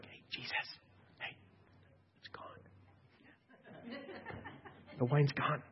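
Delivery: hushed whisper across the room; mother whispering to her son about the wine; secret whisper. Pretend. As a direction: whisper so nobody hears.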